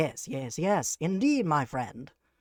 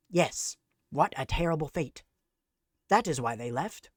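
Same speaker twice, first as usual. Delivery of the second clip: sarcastic; 3 semitones higher than usual. Acted. Mock denial of Irish blight.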